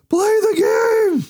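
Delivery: high, loud exasperated yell; frustrated shout. Retold or imitated. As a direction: yell it in despair. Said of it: "pulling your hair out, going".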